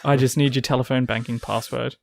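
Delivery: polite call centre script; cheerful phone agent; customer service voice. Pretend. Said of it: "In my work voice".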